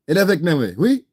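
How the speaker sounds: teasing fake French accent; mock French. Taunting a rival host in a put-on French accent.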